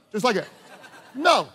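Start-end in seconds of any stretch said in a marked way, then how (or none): 1.1-1.5 firm, simple "No." said as a lesson example; demonstrated no. Shown as a demonstration. Preacher demonstrating to the congregation a firm no. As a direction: show them how to say "No". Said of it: "try it".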